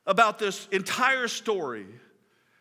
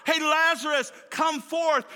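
mild mock shout, higher pitched; retold shout; 6 semitones higher than usual. Preacher voicing Jesus calling Lazarus from the tomb, mild shout. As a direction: call out higher, without a full yell. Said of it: "Jesus just simply shouts out".

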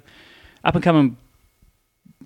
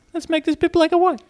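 mock arty voice; 12 semitones higher than usual. Mocking filmmakers' arty choice.

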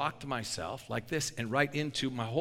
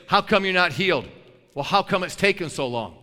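imagined complaint; 3 semitones higher, 8 dB louder than usual. Pretend.

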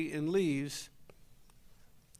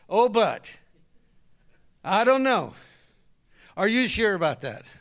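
doubting husband; 7 dB louder than usual. Retold or imitated. Husband doubting his wife out loud. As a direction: pour cold doubt on her hopes.

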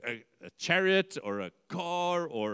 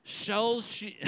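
mock-solemn proclaiming; 6 semitones higher than usual. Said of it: "He shouts out".

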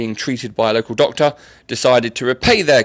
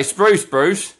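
mock annoyance; 5 semitones higher than usual. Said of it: "you're annoyed at them".

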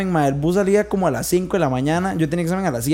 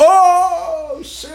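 shocked exclamation; 10 semitones higher than usual. Real, not acted. Sorpresa por la anécdota ajena. (exclamación fuerte de asombro)

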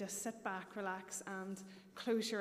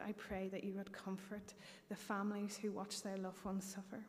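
prayer. Acted. Congregational prayer led aloud.

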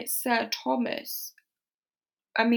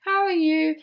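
Edmund; 4 semitones higher than usual. Retold or imitated. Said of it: "Edmund comes in and he's like".

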